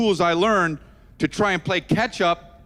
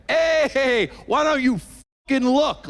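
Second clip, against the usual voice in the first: angry retort; 8 semitones higher, slower than usual. Retold or imitated. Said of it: "I immediately wanted to say".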